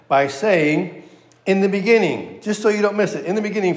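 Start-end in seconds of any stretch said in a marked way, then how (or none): 1.5-2.4 "In the beginning" pitched up as one emphatic phrase; "In the beginning," raised for emphasis with a falling end; emphatic repeated phrase. Shown as a demonstration. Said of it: "for emphasis". 3.3-3.8 "in the beginning" repeated at a higher pitch; "in the beginning," lifted as an emphatic echo; emphatic repetition. Shown as a demonstration. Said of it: "for emphasis".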